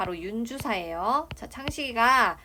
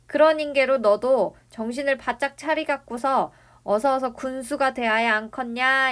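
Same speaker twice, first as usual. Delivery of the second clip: a touch louder, urging dialect delivery; lightly voiced grandfather; 4 semitones higher, 6 dB louder than usual. Grandfather prods Jongsu toward becoming county chief, lightly urging. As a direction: lightly act an old man pressing his grandson.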